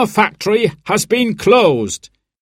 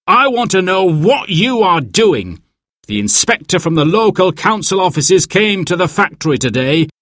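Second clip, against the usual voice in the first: raised-pitch angry manager; angry complaint from an upset caller; 7 semitones higher than usual. A narrator's reading. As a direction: demand answers down the phone, higher and indignant. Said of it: "sounded angry".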